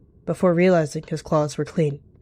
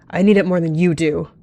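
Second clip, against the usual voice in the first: raised, forceful voice, mildly yelled; 6 dB louder than usual. A narrator's reading. Cat quarrelling with a rival over herbs, yelling. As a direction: snap it out louder. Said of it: "They let out a yell".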